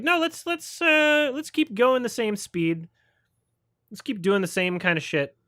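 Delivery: high mock voice, sliding back down; mocking the filmmakers. Mocking the filmmakers who won't change course, high mock voice. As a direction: squeak out the stubborn refusal, mocking it. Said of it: "It was like".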